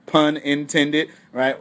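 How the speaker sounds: ordinary talk, nothing marked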